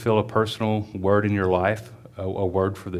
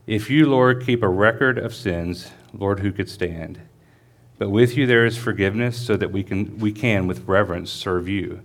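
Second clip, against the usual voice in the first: scripture reading. Acted. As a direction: read the psalm steadily to the congregation. Reads psalm aloud before sermon.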